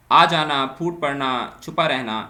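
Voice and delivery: loud, clear listing of آ جانا، پھوٹ پڑنا، چھپا رہنا; loud example list. Shown as a demonstration. Teacher announcing example verbs to students, loud. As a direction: call out each example to the class.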